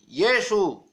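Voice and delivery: "Jesús" said YEH-su, high and loud; original Latin name. Shown as a demonstration. Preacher countering with the Catholic Latin name, "Jesús" pronounced YEH-su. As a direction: proclaim "Jesús" as YEH-su, stress first. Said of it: "el nombre que dejó Pablo".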